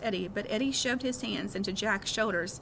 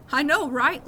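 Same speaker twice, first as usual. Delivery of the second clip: laughing; 5 semitones higher, 7 dB louder than usual. A narrator's reading. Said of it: "laughed Amos".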